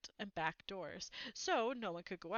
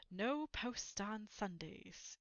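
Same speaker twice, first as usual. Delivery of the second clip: slow, soft and pleased with himself; happily; 7 dB quieter, much slower than usual. Acted. Uncle Vernon gloating to family, slow and quietly happy. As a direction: savour each word, smugly content. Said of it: "he reminded them happily".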